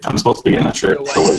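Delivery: robotic, voice-changer sound. Real, not acted. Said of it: "sorry I sound like a robot".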